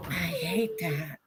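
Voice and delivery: high and slow on I hate that; high drawn-out complaint. Real, not acted.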